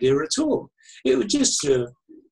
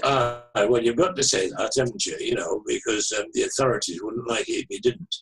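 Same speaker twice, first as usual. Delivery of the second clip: lower-pitched imitated Manchester caller; Mancunian accent; 4 semitones lower than usual. Caller doubting the author's denial, in a Manchester accent. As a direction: do a lightly voiced Mancunian on the phone. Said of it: "very distinctive Manchester, Mancunian, uh, accent".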